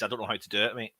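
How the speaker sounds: talking through a biscuit; chewing while speaking; mouth full. Real, not acted. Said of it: "I'm eating a biscuit live as well".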